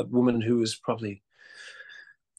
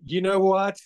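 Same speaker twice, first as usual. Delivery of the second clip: sudden higher, louder snap-back; tempted retort; 9 semitones higher, 5 dB louder, slower than usual. Retold or imitated. Actor tempted to answer online critics, mock snappy retort. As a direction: fire back at the trolls, half joking. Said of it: "you actually wanna say".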